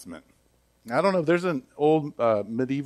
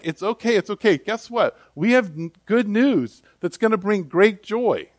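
higher, eager good-news voice; excited angels; 6 semitones higher than usual. Retold or imitated. Angels cheerfully announce great joy to shepherds, higher and eager. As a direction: bubble over with good news. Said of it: "So the angels are like".

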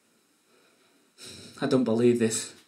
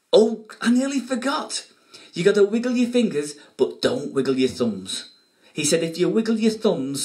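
put-on kids party magician; 3 semitones higher than usual. Magic show patter for kids.

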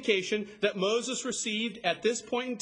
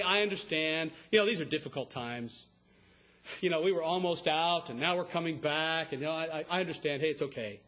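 mock soothing; 4 semitones lower, faster than usual. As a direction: gently excuse their fear, as a foil. Mock soothing reply Moses didn't give.

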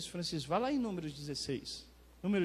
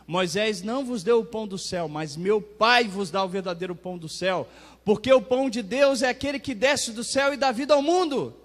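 raised preacher's reading, building louder and higher; emphatic scripture proclamation; 4 semitones higher, 8 dB louder than usual. Acted. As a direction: proclaim it, climbing to a loud finish. Reads Jesus' reply, preaching. (proclamação bíblica enfática, crescendo até o fim)

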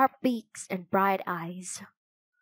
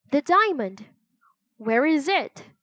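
higher, louder urgent question; startled; 6 semitones higher, 4 dB louder than usual. Acted. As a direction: ask in alarm, pitched up. Jack startled about missing diamond.

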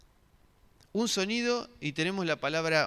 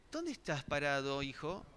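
gentle father; 7 dB quieter than usual. Shown as a demonstration. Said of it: "mis hijos hacen algo malo, digo".

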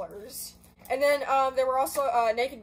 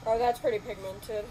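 gushing beauty guru voice; lightly put-on makeup vlogger voice. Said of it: "I sound like a beauty guru".

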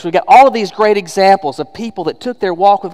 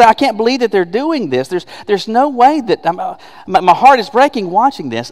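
high-pitched, halting mock distress; acted parental dismay; 5 semitones higher than usual. Parent in heaven watching a child, acted dismay. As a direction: protest in a raised, faltering flow.

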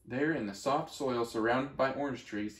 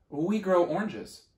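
orange tree voice; 6 semitones higher, 5 dB louder than usual. Acted.

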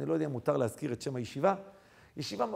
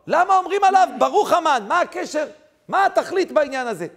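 loud, high volley of questions; forceful preaching; 10 semitones higher, 10 dB louder than usual. Acted. Preacher puts questions to the congregation, forceful preaching. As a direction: fire the questions out at full voice.

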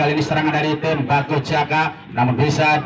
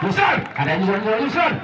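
excited; 6 semitones higher, faster than usual. Real, not acted. Player on the ball.

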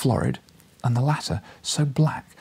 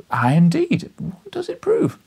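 eager echo; 6 dB louder, slower than usual. A narrator's reading. Journalist echoing eagerly.

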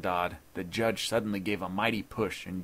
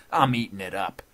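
loud gloating relish; chuckling relish; 6 dB louder than usual. A narrator's reading. Intruder enjoying the judge's pain, gloating. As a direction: relish his misery aloud. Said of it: "chuckled Dodd".

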